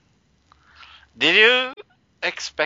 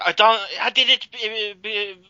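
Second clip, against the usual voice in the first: raised, pleading accusation; angry. Retold or imitated. Woman accusing her lover, angry. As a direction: throw the blame at him. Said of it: "And she gets really angry".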